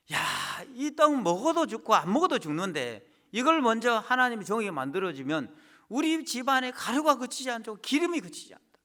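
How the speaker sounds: a widow delighted by the promise, voice lifted; joyful widow. Acted.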